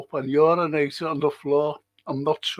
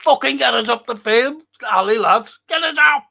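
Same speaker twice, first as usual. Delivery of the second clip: loud frustrated yell, pitched up; shouting at the team; 7 semitones higher, 7 dB louder than usual. Real, not acted. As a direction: bellow at the players to push forward. Yelling at football team.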